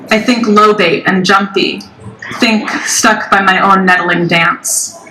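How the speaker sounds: measured recital, pausing after each line; deliberate poem-reading voice; poetry reading. Acted. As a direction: let every line land with a falling cadence. Reads second poem.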